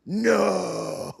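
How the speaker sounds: a startled high-pitched refusal; mock high no. Mock reply of the other side.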